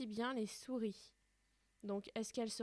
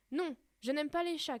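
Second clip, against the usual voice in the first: higher and louder squeaky cry; shrill shout; 6 semitones higher, 7 dB louder than usual. Acted. The mouse crying out at Alice, high and loud. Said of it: "crie la souris d'une voix suraiguë".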